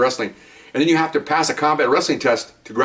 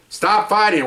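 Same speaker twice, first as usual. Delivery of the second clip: yelling; 6 semitones higher, slower than usual. Retold or imitated. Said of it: "I'm yelling at him".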